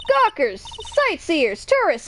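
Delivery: scornful New York guard, pitched high; weird New York accent. Acted. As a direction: list them off in put-on New York. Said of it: "giving her a weird New York accent".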